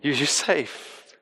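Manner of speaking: quiet, gentle promise of safety; quietly telling them they are safe; soft reassurance. Retold or imitated. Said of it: "He can really say that".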